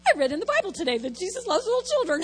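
quick, crying with laughter; laughing through it. Real, not acted. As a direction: giggle through the line. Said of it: "That was my story".

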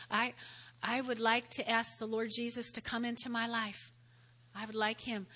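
soft, sincere prayer voice; sinner's prayer. Acted. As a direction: pray it gently for them. Models prayer.

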